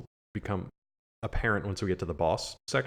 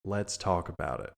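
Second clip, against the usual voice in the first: mock negotiator; slower than usual. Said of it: "where it's just like".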